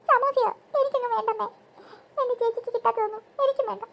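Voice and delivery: a touch of crying; mildly sobbing child; tearful refusal. Acted. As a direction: whine through mock tears. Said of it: "നീ എന്തിനാ കരയുന്നേ".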